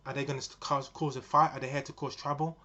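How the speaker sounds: panicked. Retold or imitated. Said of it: "they start to panic".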